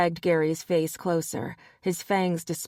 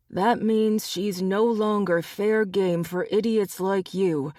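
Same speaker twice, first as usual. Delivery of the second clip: raised, scornful lecture; lightly voiced scornful leader; disgusted alpha; 2 semitones higher than usual. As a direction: put them in their place. Max lectures the wolves.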